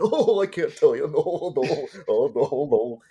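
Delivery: high, loud bashful hick buzzard; Beaky Buzzard voice. Retold or imitated. Pitching the cartoon to the crew, Beaky high and loud. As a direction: giggle it out like a shy dopey bird. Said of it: "I did all the voice".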